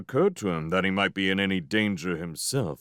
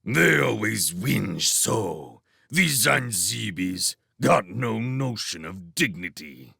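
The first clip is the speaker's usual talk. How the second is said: put-on northern accent, drawn out slowly at first; contemptuous soldier with a northern accent; barbarous northern accent; slower than usual. A narrator's reading. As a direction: grumble in a rough northern accent. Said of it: "in his barbarous northern accent".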